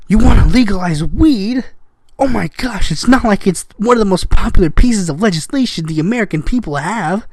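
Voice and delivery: mock-scandalized disbelief; sarcastic shock. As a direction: feign amazement at something obvious.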